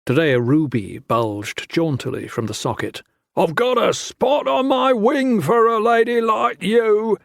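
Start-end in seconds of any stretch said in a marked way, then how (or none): 3.4-7.2 high, slow, sleazy come-on; leering soldier. A narrator's reading. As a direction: drawl it like a lecherous drunk.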